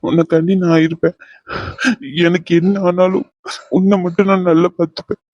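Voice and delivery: halting, with tears close; tearful promise. Acted. Partner promises never to leave, tearful. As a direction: pledge it earnestly, pausing between phrases. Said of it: "அழுகாத".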